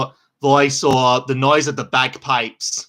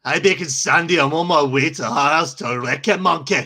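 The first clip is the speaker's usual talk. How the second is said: put-on Scottish accent. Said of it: "Scooby-Doo in a Scottish accent".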